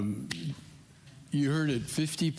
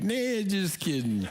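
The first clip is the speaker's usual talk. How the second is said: laughing; 9 semitones higher than usual. Retold or imitated. Wife's quote, laugh heard.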